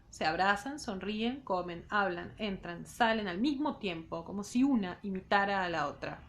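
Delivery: measured literary read-aloud; reading a novel aloud to students; story narration. A narrator's reading. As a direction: read the novel to the class, unhurried. Teacher reads novel aloud.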